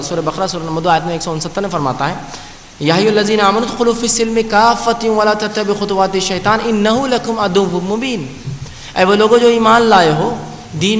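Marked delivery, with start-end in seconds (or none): 2.8-8.2 slow, measured Arabic chant; تلاوت کا انداز; Quran recitation. Acted. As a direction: recite the verse with reverent care.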